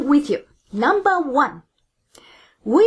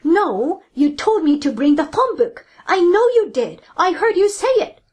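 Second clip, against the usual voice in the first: mild mock shout; 3 semitones higher than usual. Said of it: "The office worker shouts in response".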